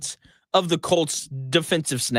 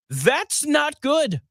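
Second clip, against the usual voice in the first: dry sarcastic stress; 9 semitones higher, much slower than usual. Real, not acted. Sarcastic understatement on aging strength.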